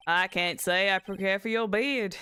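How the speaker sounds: Southern cowboy retort; lightly twanged Southern comeback. Acted. Cowboy witness to the lawyer, Southern twang. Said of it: "I go into the southern twang".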